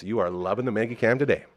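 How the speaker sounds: ordinary delivery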